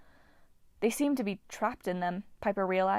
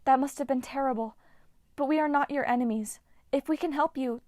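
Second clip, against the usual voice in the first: charm speak; 5 semitones higher than usual. Acted. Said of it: "trying to use charm speak".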